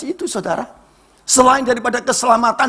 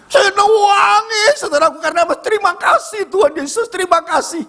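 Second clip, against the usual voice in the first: acted-out weeping; 9 semitones higher than usual. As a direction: wail your thanks as if sobbing.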